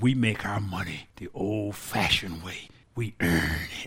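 very deep, low, solemn, serious commercial pitchman voice. Quoting an old actor from a commercial your father liked, use his deep, serious voice. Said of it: "he had this deep, serious voice".

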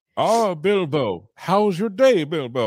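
very slow earnest delivery. Retelling a movie scene where Gandalf asks Bilbo about his day, doing a mock-earnest Gandalf impression. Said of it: "Gandalf will say something earnest to him".

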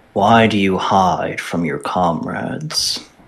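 rumbling, rumbly voice. Narrating the game, the speaker voices something asking Ava a question: rumbling voice. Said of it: "a sort of rumbling voice that asks you".

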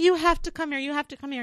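put-on high-pitched childlike yell. Retelling calling to a mother as a scared child: imitating own childhood yell. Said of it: "yelling to my mom".

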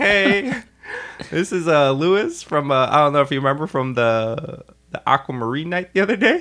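high, squeaky, cheesy voice. Retelling a voicemail left for a DJ: imitating own high-pitched voice. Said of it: "That's how high my voice got".

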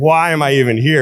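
plain

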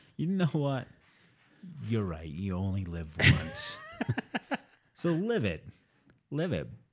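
put-on, swooping, weird motivational-speaker voice. Giving joking life advice to a guy online: put-on weird inspirational voice. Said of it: "why are you sounding like a weird inspirational".

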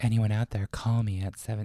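put-on ghost voice. Joking with a co-host while practicing a new voice: sex ghost voice. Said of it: "I need to practice".

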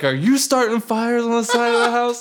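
mock shrill, very high, loud yelled screaming. Retelling how the stepdad woke them: imitating stepdad screaming. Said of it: "he started screaming at us".

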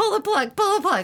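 shrill, very high, very loud scream. Retelling a rainstorm at an outdoor gig: retelling a scream. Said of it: "I screamed".

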